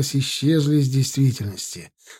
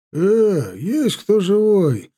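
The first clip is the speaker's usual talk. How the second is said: raised calling voice; 6 semitones higher, much slower than usual. A narrator's reading. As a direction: call out across the road. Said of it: "заорал кто-то из бандитов".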